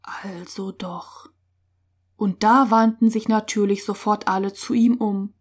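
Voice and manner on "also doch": slow, whispery and very soft; hushed, slow realisation; very quiet. A narrator's reading. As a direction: say it under the breath, barely audible. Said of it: "mit einmal ganz leise".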